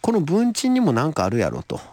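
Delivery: Kansai dialect creeping into ordinary talk; slipping into Kansai dialect. Real, not acted. Writer explaining his character to the host, slipping into Kansai dialect. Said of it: "俺も関西弁になってますけど".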